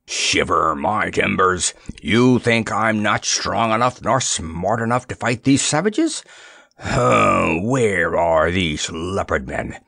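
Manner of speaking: lightly voiced blustering old pirate; mock pirate roar. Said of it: "roared the former pirate in such a reverberating voice".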